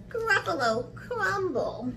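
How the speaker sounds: high, teasing mouse voice; name the dish in a high, sly voice; menacing little mouse. Acted. Mouse threatening to eat the Gruffalo, high and sly.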